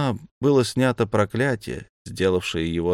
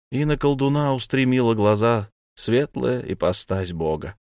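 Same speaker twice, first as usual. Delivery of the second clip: usual speaking voice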